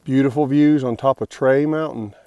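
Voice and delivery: dry sarcastic praise. Real, not acted. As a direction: say it sarcastically, mock-admiring. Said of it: "Obviously, I'm being a little sarcastic".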